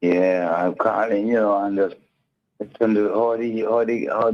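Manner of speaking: caller on a phone line; calling in to a radio show; over the phone. Real, not acted. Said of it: "Caller, you are on feedback".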